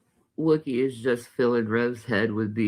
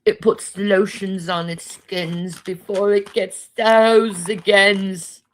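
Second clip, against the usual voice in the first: a higher, eerie killer voice; Buffalo Bill impression; 9 semitones higher, 4 dB louder, slower than usual. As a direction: creep them out with the lotion line. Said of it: "thinking of Silence of the Lambs".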